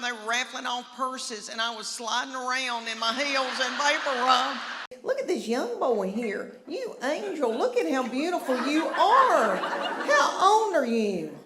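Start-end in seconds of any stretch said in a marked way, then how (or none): 5.0-11.4 fawning nun. Retold or imitated. Nuns fawning over young man.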